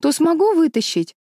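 высокий детский голос, чуть громче; неуверенно предложить помощь; робко предлагая. A narrator's reading. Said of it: "предложила она". (робкое предложение испуганной девочки)

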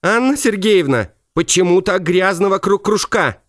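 high squealing falsetto screech. A narrator's reading. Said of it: "верещать визгливым фальцетом".

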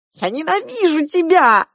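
high, loud furious scream; high, loud screaming outburst; angry yell. Acted. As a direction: scream the hate at him. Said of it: "заорала я на Клопа".

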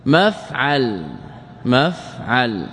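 مفعل broken in two slow syllables, maf-'al; both vowels fatha. Shown as a demonstration. Teacher showing students the two fathas, slow syllable-by-syllable demo. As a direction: say مفعل slowly as maf...'al, an a in each half. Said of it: "متلبسا بفتحتين".

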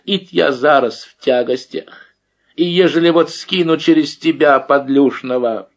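wailing lament. A narrator's reading. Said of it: "с подвывом заголосила".

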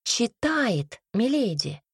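reverent, slightly lifted answer; mildly rapturous, adoring servant; delight and reverence. Acted. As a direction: say it with admiring awe. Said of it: "столько восторга и благоговения в её голосе".

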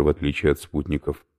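ordinary talk, nothing marked

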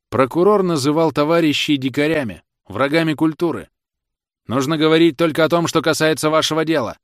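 defiant defendant shouting back at the judge; indignant protest. Acted. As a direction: hurl it at the court in protest.

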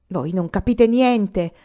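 put-on a touch of teenage irritation, drawn out; irritated. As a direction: snap back at her, slowly and annoyed.

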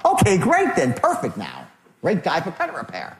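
mock enthusiasm. Mock over-upbeat wrong reply.

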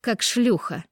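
high spiteful outburst; shouted. A narrator's reading. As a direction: fling the insult at her. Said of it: "выкрикнула Майя". (выкрикнуть высоко и зло)

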